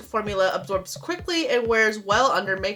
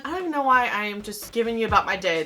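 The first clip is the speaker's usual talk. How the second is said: fast, jittery rush of words; racing ahead on coffee; too much caffeine; 3 dB quieter, faster than usual. Real, not acted. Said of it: "The coffee is kicking in".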